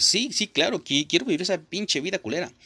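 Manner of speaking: high, mock-eager yes-yes voice; sarcastic fake agreement. Mocking a woman who says yes to a bad marriage deal, high fake cheer. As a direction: play along with an obviously bad offer, overly eager.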